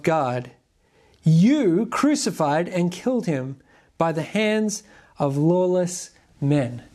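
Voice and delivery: slow, weighty Bible reading; solemn scripture read to the congregation. Acted. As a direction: read the verses deliberately, letting each phrase land. Reads scripture passage aloud.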